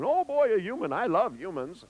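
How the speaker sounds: imitated delighted snake. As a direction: play a snake adoring people. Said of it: "Alice is hanging down by the tip of her tail".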